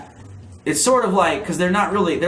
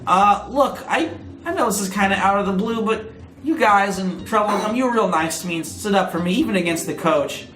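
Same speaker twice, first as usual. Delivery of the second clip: squeaky gorilla voice; 5 semitones higher than usual. Acted. Katie Kong voiced on phone.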